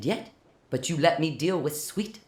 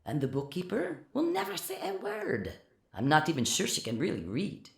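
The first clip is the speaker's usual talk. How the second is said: much softer, muffled behind a door; 2 semitones lower, 9 dB quieter than usual. A narrator's reading. Francois behind the door to Philip, muffled and soft. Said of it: "his voice muffled".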